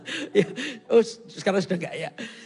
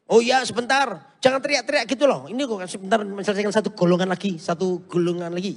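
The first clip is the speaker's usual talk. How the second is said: annoyed wife; 3 semitones higher, 5 dB louder than usual. Retold or imitated. Irritated wife answering husband.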